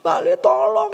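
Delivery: mock crying cry for help; imitated tearful plea. Widow repeatedly asking for help, imitated tearful plea. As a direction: beg as if tearful, put-on. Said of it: "Dia selalu bilang gitu kan".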